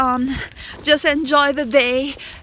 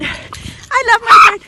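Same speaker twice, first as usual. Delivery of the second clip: loud, high, slow gush; gushing affection; 5 semitones higher, 8 dB louder, slower than usual. Real, not acted. Owner gushing about beloved parrot, gushing affection. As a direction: gush slowly over your pet. Gushing repeat of same words.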